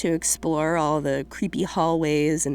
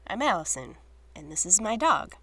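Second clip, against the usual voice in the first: hoarse from a cold; 2 semitones higher, 4 dB quieter than usual. Real, not acted. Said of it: "apologize for sounding a bit like a gremlin".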